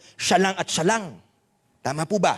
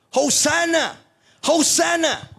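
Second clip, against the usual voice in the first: mock crowd cheer, a touch raised; crowd shouting hosanna; 7 semitones higher than usual. Preacher voicing Jerusalem crowd greeting Jesus, mild mock cheer. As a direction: echo the crowd's joyful cry, lightly. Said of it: "And the people were shouting".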